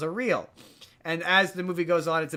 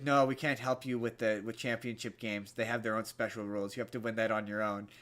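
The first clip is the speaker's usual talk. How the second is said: hushed angel voice; 7 semitones lower, 6 dB quieter than usual. Retold or imitated. Christopher Lloyd's angel explains rules.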